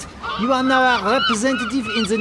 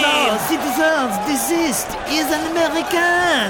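urgent shout; 6 semitones higher than usual. Acted. Pleading with mob.

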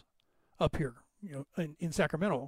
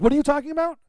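annoyed brother; 7 semitones higher, 6 dB louder, much faster than usual. Retold or imitated. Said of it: "the guy turns around and goes".

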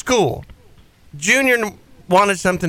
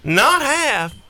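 shouted demand; 6 semitones higher, much slower than usual. Pretend. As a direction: yell it like a demanding diva. Acting the customer's demands.

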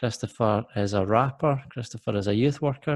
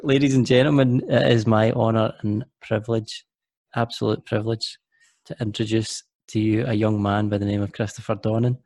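formal introduction. Acted. Formal host introduction of guest.

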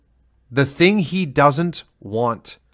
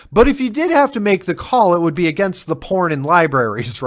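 pointed retort; 6 semitones higher than usual. Retold or imitated. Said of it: "And it's like".

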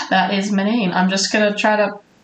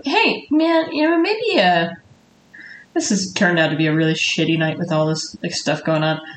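easygoing coworker voice; friendly bartender. Acted. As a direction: suggest it casually to a coworker. Bartender talks to bar back.

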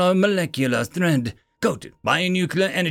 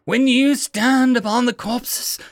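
higher, halting, fearful but venomous; 9 semitones higher, 4 dB louder than usual. Acted. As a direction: stammer the accusation in fear. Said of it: "not even trying to suppress the fear in her voice".

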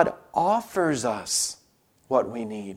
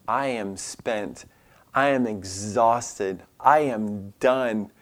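slow, low, mildly drained; weary, drawn-out delivery, a touch acted; acted exhaustion; 4 semitones lower, 4 dB quieter, much slower than usual. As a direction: say each word slowly, as if worn out. Voicing someone utterly worn out.

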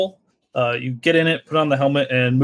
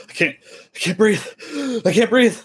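panicked; 9 semitones higher than usual. Acted. Panicking trainee in the pool.

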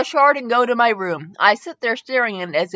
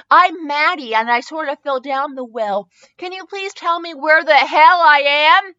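exasperated question; 4 semitones higher, 3 dB louder than usual. Acted. Confused newcomer asks.

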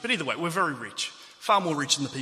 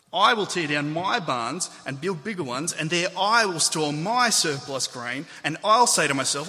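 "I" and "my" punched louder and stretched; stress on I and MY; 3 semitones higher, 5 dB louder than usual. Shown as a demonstration. Preacher exposing the farmer's greed, heavily stressing "I" and "my". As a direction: lean hard on each "I" and "my", slowly. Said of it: "I'll read it with particular emphasis".

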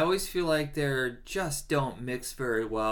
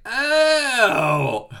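surprised; 12 semitones higher, 9 dB louder than usual. Retold or imitated. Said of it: "I was like".

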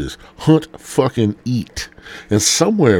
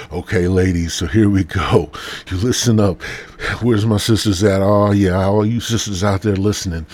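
Carl Lentz. Pretend. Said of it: "Carl Lentz is up in this motherfucker now".

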